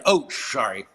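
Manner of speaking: usual speaking voice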